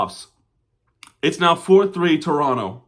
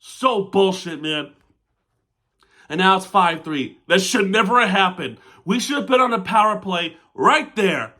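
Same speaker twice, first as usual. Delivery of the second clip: frustrated; 5 semitones higher than usual. Real, not acted. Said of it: "that's so frustrating".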